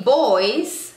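put-on "boys" started on a firm B. Shown as a demonstration. Teacher contrasting with voice, "boys" with a B. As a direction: say "boys" with B, rising. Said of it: "se pronuncia con B".

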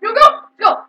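loud high cheer; excited shout. Real, not acted. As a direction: yell go with excitement.

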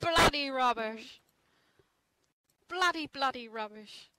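put-on terrible British accent. Echoing the others' British swearing, terrible mock British accent. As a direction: draw it out in bad British. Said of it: "Terrible accent".

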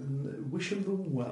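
slow, sarcastic-sounding well-wishing; unintended sarcasm. Real, not acted. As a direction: wish them luck slowly, sounding insincere by accident. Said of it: "that just sounds sarcastic".

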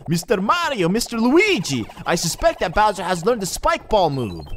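high, formal mock Indian accent; Toadsworth, Indian accent. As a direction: announce a discovery in a put-on Indian accent. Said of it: "I like giving him an Indian accent".

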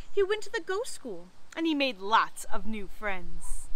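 put-on measured read-aloud for children; story narration. A narrator's reading. Librarian reading a not so spooky story to children, storytelling voice. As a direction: tell it like a picture book. Reads picture book aloud.

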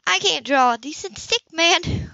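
light rueful admission; self-deprecating. A narrator's reading. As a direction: laugh at her own lack of skill.

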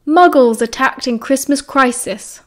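slow, punchy headline read; blaring headline. A narrator's reading. Narrator reading the Daily Prophet headline aloud, slow and punchy. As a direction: announce it like a splashy front page. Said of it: "blared the headline".

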